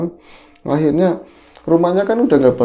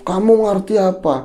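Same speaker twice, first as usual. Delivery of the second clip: put-on old father's voice; 10 semitones higher than usual. Father rebuking his son, high old man's scold. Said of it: "dengan suara tuanya begitu".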